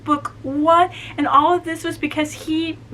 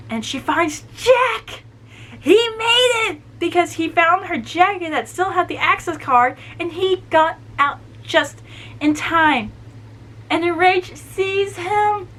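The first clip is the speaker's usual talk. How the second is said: choked-up excitement; 6 semitones higher than usual. Real, not acted. Fan telling viewers that Jack made it, choked-up excitement. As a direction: voice lifting high, close to tears. Emotional recap of reunion scene.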